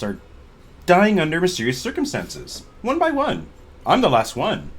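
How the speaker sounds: inappropriately cheery about grim news; lively, punchy delivery with pitch leaps; chipper. Acted. Archaeologist telling adventurers her colleagues are dying, chipper. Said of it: "You sound pretty chipper for someone".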